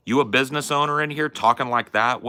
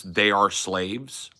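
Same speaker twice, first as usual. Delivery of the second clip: mocking quote; much slower than usual. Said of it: "And your answer is".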